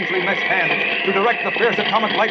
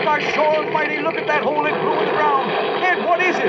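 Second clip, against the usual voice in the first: panicked; 9 semitones higher than usual. Acted. Guards panic at the dam.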